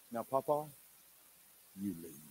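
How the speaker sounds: a lightly voiced little girl giving orders; bossy toddler. Granddaughter sends Papa out of the bathroom, lightly voiced bossy toddler. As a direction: hand down the order calmly, like a small boss. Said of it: "this is the way she said it".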